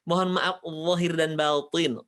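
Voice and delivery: slow, with zahir made heavy; joking fluent apology; mock fluent greeting. Shown as a demonstration. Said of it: "minta maafnya gini".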